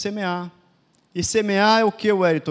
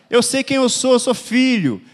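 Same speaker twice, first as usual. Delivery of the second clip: bold declaration; 5 semitones higher, 5 dB louder than usual. Acted.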